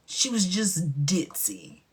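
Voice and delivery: slow, whispered verdict; whispered aside. Real, not acted. Telling viewers Cheyenne was only ditzy, whispered. Confiding judgment.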